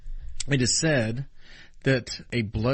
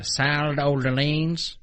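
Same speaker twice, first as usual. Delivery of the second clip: put-on hillbilly accent; 4 semitones higher, 3 dB louder, much slower than usual. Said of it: "if you can do a hillbilly".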